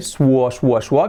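"suo" as a glided "swo"; wrong w sound. Shown as a demonstration. Teacher isolating the sound to avoid, wrong "suo". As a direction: repeat "suo" with a rounded w glide. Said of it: "No se dice el".

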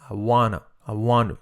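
"wanna" with the T as a soft R; "I wanna" run together, the T flapped. Shown as a demonstration. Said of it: "la T como re suave". ("wanna" con la T como R suave)

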